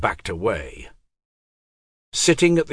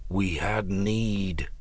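softly; 6 dB quieter, slower than usual. A narrator's reading. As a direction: speak gently, almost under breath. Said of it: "said Pug softly".

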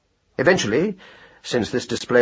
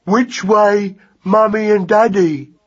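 put-on high, slow childlike mouse voice; polite young mouse; 9 semitones higher, 4 dB louder, slower than usual. Lost mouse asks hare the way, politely. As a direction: ask simply and politely, drawn out. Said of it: "said Magnus politely".

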